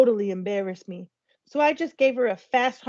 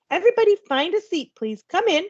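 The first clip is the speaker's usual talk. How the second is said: higher, brisk teacher voice; teacher directing; 7 semitones higher than usual. A narrator's reading. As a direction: wave the late kids in. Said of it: "she said".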